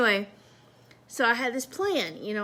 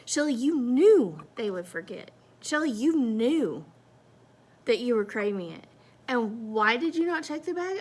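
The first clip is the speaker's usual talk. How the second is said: louder, rising rant at herself; self-scolding; 4 dB louder than usual. Retold or imitated. Scolding herself in the car for not checking the bag, angry rant. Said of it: "I go through that".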